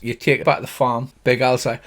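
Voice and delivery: ordinary talk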